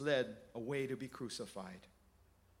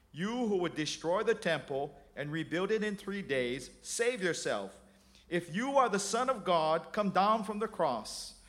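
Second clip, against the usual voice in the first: deriding; 4 semitones higher, 4 dB louder than usual. Acted. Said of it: "derided him".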